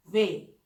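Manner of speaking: वे, short; German W. Shown as a demonstration. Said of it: "डब्ल्यू". (वे बोलिए)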